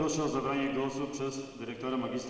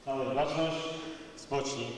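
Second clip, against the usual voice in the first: drill sergeant; 3 semitones lower than usual. Real, not acted. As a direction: call the whole hall to attention. School assembly, commands called out.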